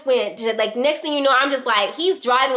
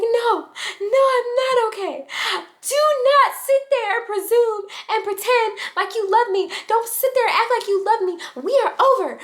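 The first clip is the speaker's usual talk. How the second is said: put-on upset drunk crying rant; 11 semitones higher than usual. Drunk woman yelling at ex in car, tearful rant. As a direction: shout it through tears, voice pitched way up.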